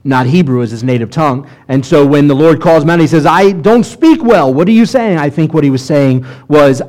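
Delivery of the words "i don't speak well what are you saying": incredulous Moses pushing back on God; protesting Moses. Retold or imitated.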